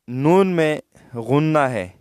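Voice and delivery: نون held with a nasal hum, slowly; slow demo of ghunna on نون. Shown as a demonstration. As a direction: let the نون ring through the nose. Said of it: "ناک تک آواز لے جانے کو غنہ کہتے ہیں".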